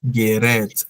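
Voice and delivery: Gerät with the ä said open like Ärger; clear German umlaut. Shown as a demonstration. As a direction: say Gerät slowly with an open ä sound. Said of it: "A Umlaut wie Ärger".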